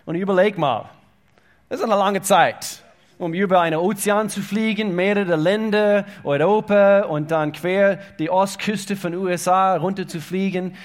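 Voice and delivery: lauter und höher, mitreißend; begeistert erzählt. Real, not acted. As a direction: staunend und laut erzählen. Excited travel story. (lebhaft gesteigert)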